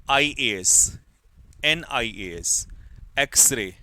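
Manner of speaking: एनआईएएस drawn out slowly, letter by letter; slow dictation. Shown as a demonstration. Teacher reading answers aloud to the class, slowly. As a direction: dictate एनआईएएस slowly so students can follow. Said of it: "मैं बोलता चलूंगा".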